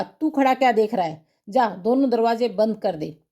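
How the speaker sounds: a mild retold scolding of the son; a touch of a stern father giving an order. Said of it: "मुझे झड़क कर कहा".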